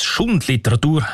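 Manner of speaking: "Schundliteratur" with the emphasis landing on "Schund"; stress on Schund. Shown as a demonstration. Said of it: "mit Betonung auf Schund".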